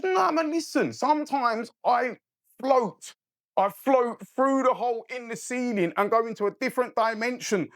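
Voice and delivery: retold mad talk. Storyteller imitating the guy who claims he floats, mad talk. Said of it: "talking all of this mad talk".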